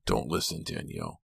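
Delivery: low, quiet, contained anger; tight with anger. A narrator's reading. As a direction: warn her through controlled anger. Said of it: "Kit's voice sounded tight with anger".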